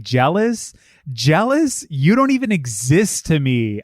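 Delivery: incredulous rising questions, then a cutting put-down; brutal, manic retort. Retold or imitated. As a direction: imitate a wild, scornful comeback. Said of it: "her reading of it too was, like, fucking brutal".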